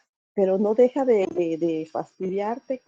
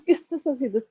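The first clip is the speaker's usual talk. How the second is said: a chuckle, then "¿Qué estás haciendo?" pitched higher; laughing at herself; 4 semitones higher, faster than usual. Retold or imitated. Mother catching herself controlling, laughing. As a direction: tease yourself through a laugh. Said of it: "y me da risa".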